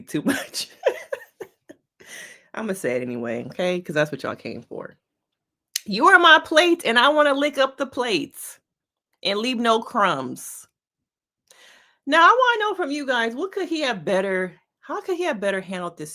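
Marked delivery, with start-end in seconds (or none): 5.8-10.7 higher, louder mock-flirty reading; mock seductive text. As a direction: ham up the cheesy pickup line.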